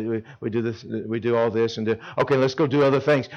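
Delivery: a hint of a bored teenager rushing chapel; bored going through motions. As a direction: sound like you just want it over. Mocking bored camper.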